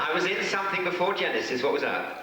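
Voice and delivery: high, fast, laughing through the words; laughing at himself. Real, not acted. Actor asking the host what he was in, laughing. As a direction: giggle at your own memory lapse.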